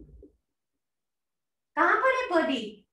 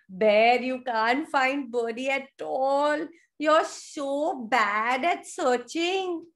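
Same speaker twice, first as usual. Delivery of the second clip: drawn-out mock taunt; playful storybook jeering; teasing animals; slower than usual. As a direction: tease the bear slowly. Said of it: "were laughing at the bear".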